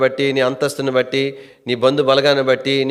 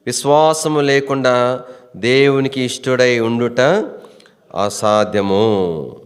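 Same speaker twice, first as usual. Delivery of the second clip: slow, drawn-out verse recitation; solemn scripture quotation; slower than usual. Real, not acted. Preacher quoting Hebrews to the congregation, slowly and solemnly.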